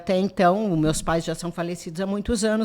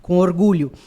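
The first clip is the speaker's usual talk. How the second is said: proud, louder emphasis; 2 semitones lower, 7 dB louder than usual. Real, not acted. Artisan recalling the school's founding, proudly. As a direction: land it firmly, with pride. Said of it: "E falo isso com orgulho".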